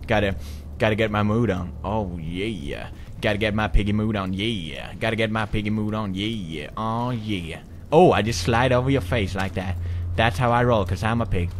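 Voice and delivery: a hint of a lazy, sultry pig; lightly voiced pig. Voicing the pig character.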